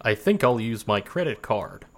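studied American accent attempt. Shown as a demonstration. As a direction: keep up the put-on American accent. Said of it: "how is my American accent".

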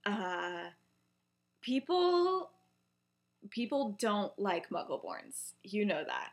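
halting, awkward explanation with long pauses; uncomfortable. Retold or imitated. Remus breaking bad news to Lily, uncomfortable. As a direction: feel for the words, reluctant to say it. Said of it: "like, uncomfortable".

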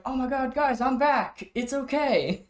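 very high, mock-relieved cartoon voice; relieved Chef impression. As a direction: reassure the guys in a high put-on voice. Imitates Chef waking up relieved.

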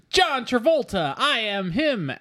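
lightly high, slow movie-star swagger; a hint of Travolta's own cool; normal Travolta voice. Host imitating Travolta's normal voice, light swagger. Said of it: "like, voice".

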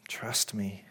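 whispered, unvoiced and soft; a whispered reassurance from the Father. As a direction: breathe it like a secret to a son. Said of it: "just whispers to him".

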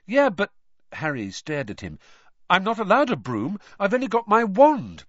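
protesting. A narrator's reading. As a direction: push back urgently.

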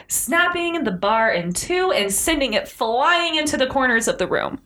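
dramatic storyteller with swooping pitch; animated tale read aloud; story narration. A narrator's reading. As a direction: build suspense toward the monster's entrance.

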